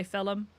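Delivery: "film" said as "fillum"; countryside pronunciation. Shown as a demonstration. Explaining how country people say it, "fillum". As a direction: break "film" into two syllables, "fillum". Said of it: "more of a country type thing".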